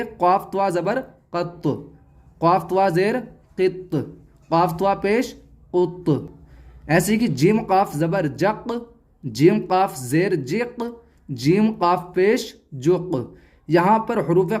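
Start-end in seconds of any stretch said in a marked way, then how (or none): 0.0-6.3 कत, कित, कुत set apart, each t lightly jolted; pause, then bounce the final t of कत, कित, कुत; qalqalah bounce. Shown as a demonstration. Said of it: "तो हल्का सा झटके के साथ पढ़ेंगे". 7.3-13.3 जक, जिक, जुक with the final q released in a jolt; qalqalah bounce. Shown as a demonstration. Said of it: "तो इनमें कलकला होगा".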